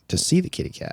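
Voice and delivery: hushed, high, scheming whisper; sinister whisper. Real, not acted. Dad hinting at his plan for the cougar, whispered. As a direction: whisper it like a plot.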